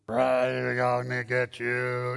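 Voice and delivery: low, slow menacing demon growl; demon cat voice. Retold or imitated. Preacher voicing the demon-possessed cat, low and slow menace. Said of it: "And the voice that it had".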